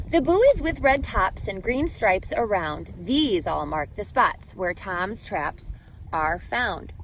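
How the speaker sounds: lilting rhyming read-aloud voice; reading to children. A narrator's reading. Teacher reading a rhyming book to students, storybook lilt. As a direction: read the rhymes to the class with a gentle bounce.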